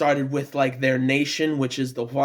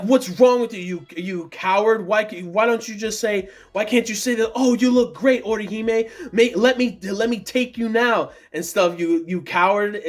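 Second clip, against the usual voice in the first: mock yell; 4 semitones higher than usual. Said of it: "Yoruichi yells at Ichigo".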